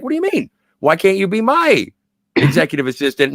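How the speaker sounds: indignant retort. Retold or imitated. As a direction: push back in disbelief, pitch leaping up. Pam objects to being the assistant.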